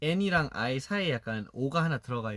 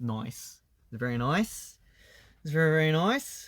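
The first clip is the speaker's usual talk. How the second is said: nice pronounced with an Australian accent; 3 semitones higher than usual. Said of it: "나이스 말고 너이스".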